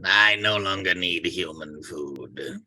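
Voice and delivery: slow robot monotone; an alien speaking through a human; mechanical voice. Acted. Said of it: "in a strange mechanical voice".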